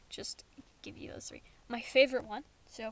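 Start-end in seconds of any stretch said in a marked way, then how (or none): 0.1-1.4 soft whispered aside; whispering. Real, not acted. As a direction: whisper it lightly.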